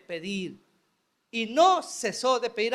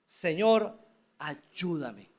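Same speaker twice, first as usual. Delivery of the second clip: pleading; 4 semitones lower, much slower than usual. Acted. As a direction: beg low, kneeling before the Lord. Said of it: "ahora suplica".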